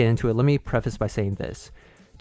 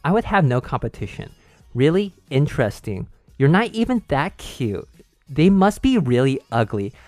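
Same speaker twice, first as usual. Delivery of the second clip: put-on higher, smug Valley Girl sneer; 3 semitones higher than usual. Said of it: "in a higher pitch Valley Girl tone".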